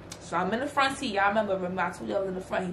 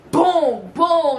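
punching sound effect; 6 semitones higher, 7 dB louder than usual. Retold or imitated. Retelling her punches.

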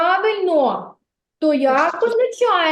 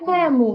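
Ему called out, stress on Е. Shown as a demonstration. Teacher calls the word so kids hear the stress. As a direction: call out Ему with the weight on Е. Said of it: "Ану, погукайте це слово".

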